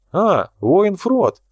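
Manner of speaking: high, slow, delighted hail; drawn-out happy welcome; glad greeting. A narrator's reading. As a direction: greet him with real joy. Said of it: "обрадовался Николай".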